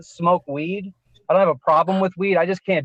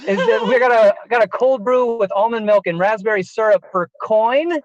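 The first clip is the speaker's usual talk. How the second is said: barista calling an order; 4 semitones higher than usual. Retold or imitated.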